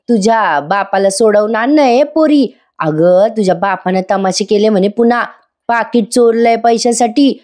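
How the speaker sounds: a lightly voiced rustic mother nagging on the phone; pleading village mother. Maina phones her daughter Reena to free her father: lightly voiced nagging mother.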